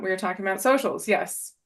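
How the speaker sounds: ordinary delivery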